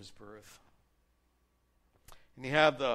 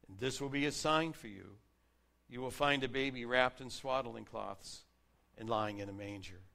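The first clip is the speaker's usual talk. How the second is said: proclaimed reading of the angel's words; scripture reading. Acted. Pastor reading the angel's announcement to shepherds, proclaiming. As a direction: announce it like good news.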